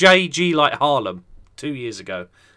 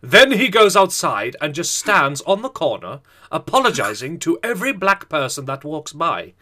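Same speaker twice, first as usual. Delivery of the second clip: lightly epic narration. Acted. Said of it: "Read it out in an epic voice".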